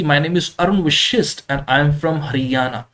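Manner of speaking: Arun Vashisht and Haryana given extra weight, slowly; stress on names. Shown as a demonstration. Teacher shows students how to stress the main words, slowly. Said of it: "इसको आपको बोलना है".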